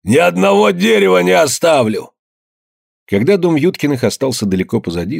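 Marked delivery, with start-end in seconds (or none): 0.0-2.1 high, loud raging cry; screamed threat. A narrator's reading. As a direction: hurl the threat after them. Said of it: "выкрикивал".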